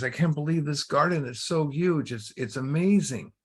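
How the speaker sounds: mildly acted amazement; amazed little boy. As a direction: gush lightly, like an impressed kid. Boy amazed at huge garden.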